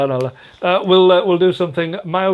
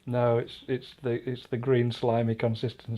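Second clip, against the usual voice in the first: deadpan; 5 semitones lower, 10 dB quieter than usual. Acted. Dry deadpan joke.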